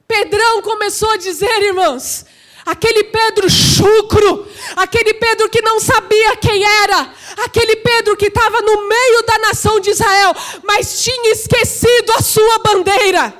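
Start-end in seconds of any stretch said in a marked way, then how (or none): 2.7-13.3 driving, shouted pulpit cadence; full-force preaching. Real, not acted. Preacher describing rough Pedro to the brothers, impassioned and loud. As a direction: pile up each phrase with fervour.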